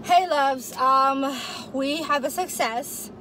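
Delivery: high, loud cheerful hello; excited greeting. Real, not acted. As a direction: announce the win to viewers. Vlog greeting, triumphant.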